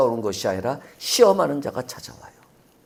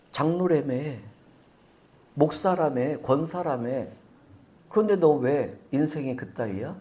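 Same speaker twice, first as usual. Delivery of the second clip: sneering voice. Acted. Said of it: "이 비아냥거리는 음성이란 말이에요".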